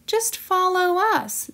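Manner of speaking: high-pitched kindly character voice. A narrator's reading. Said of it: "said Fliss kindly".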